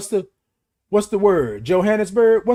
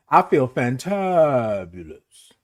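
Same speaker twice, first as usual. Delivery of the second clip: drawn-out fantabulous; 3 semitones lower, much slower than usual. Shown as a demonstration. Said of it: "demo repeated".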